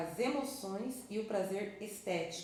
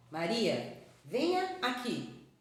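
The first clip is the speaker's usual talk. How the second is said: calling; 3 semitones higher, 3 dB louder, slower than usual. Shown as a demonstration. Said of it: "pronuncie o nome Maria com entonações diferentes".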